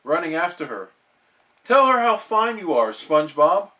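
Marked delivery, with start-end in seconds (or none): 1.6-3.7 loud urging. Acted. Patrick urges loudly.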